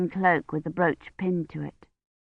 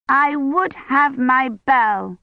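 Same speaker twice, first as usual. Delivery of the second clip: put-on high, slow whining little girl; a small child demanding her toy; child's voice; 7 semitones higher, 3 dB louder, much slower than usual. A narrator's reading.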